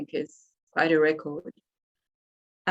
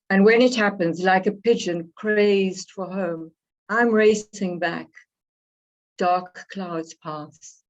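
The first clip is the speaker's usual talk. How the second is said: poetry reading. Acted. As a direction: read it gently, savoring the closing images. Reads her poem aloud.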